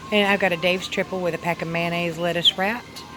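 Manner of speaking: whistling s on each s sound; s sounds whistle through the teeth. Real, not acted. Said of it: "sorry about the whistle".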